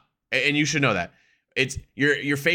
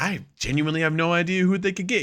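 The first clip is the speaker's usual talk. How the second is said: retold puzzlement; 8 semitones higher than usual. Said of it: "I'm like".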